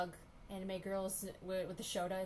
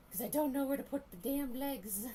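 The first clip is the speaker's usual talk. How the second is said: frustrated; 4 semitones higher, 5 dB louder than usual. Real, not acted. Frustrated outburst at drawing.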